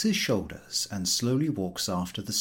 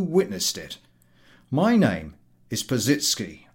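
louder, stern rebuke; stern engineer; 4 dB louder than usual. Acted. Engineer to the ticket collector, stern and threatening. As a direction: threaten a complaint coldly.

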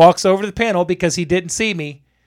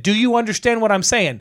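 higher-pitched, heated re-enacted question; retold stern demand; 5 semitones higher than usual. Electrician scolds man at the panel, retold stern demand. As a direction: press him sternly at normal pace.

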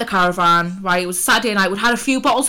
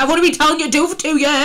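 exasperated nag; 7 semitones higher, 6 dB louder, much faster than usual. Retold or imitated. Frustrated retold nag at Jade.

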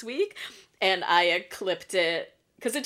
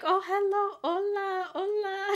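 high, sing-song forced hello; fake cheerful greeting; 13 semitones higher, slower than usual. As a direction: wave and greet like nothing happened. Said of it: "trying to be normal".

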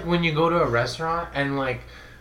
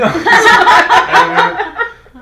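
put-on failed British accent; 8 semitones higher, 13 dB louder than usual. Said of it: "I can't even do it".

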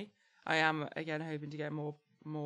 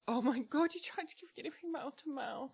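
surprised; 6 semitones higher than usual. Real, not acted. Learns of guinea pig rescue.

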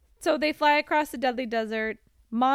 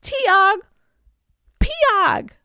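magic words; 10 semitones higher, 10 dB louder, much slower than usual. Retold or imitated. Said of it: "So she's like".

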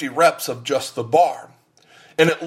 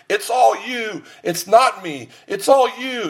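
higher, pumped-up gym encouragement; cheering spotter; 7 semitones higher than usual. Retold or imitated. Gym buddy urging his friend on, higher excited cheer. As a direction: cheer him on like a spotter at the bench. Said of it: "And then he starts".

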